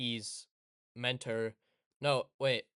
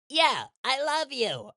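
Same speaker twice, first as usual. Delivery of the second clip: much higher, louder, slow sappy voice; fake lovey; 12 semitones higher, 7 dB louder, slower than usual. A gaslighting boy faking love to Hina, sappy and slow. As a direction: croon it like a fake lover. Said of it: "by being like".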